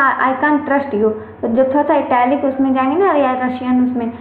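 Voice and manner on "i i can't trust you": demo. Shown as a demonstration. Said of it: "अब जैसे बोलते हैं".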